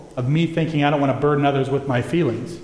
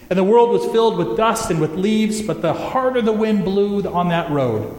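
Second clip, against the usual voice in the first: storm narration; 5 semitones higher than usual. A narrator's reading. Wind storm in parable.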